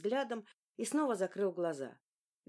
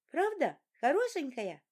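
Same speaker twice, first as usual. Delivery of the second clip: put-on higher, louder boy voice; high excited boy; 8 semitones higher, 4 dB louder than usual. A narrator's reading. Young son telling his father how he thrashed in his sleep. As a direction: tell it like an excited small boy.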